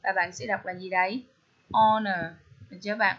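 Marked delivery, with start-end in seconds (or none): 1.7-2.3 honor said "on-er" with no H; silent H. Shown as a demonstration. Teacher showing students how to read it, silent H in honor. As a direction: begin honor straight on the vowel, dropping the H. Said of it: "âm hờ á bạn ha".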